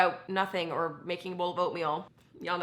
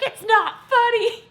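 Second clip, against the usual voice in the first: high, loud, slow mock protest; hammed-up annoyed dad; imitating dad annoyed; 13 semitones higher, 9 dB louder, slower than usual. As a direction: whine it like an upset dad. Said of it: "And he's like".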